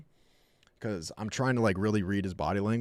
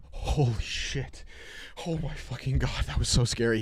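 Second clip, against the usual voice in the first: mock scared dog; 2 semitones higher than usual. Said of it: "He started, like, shaking".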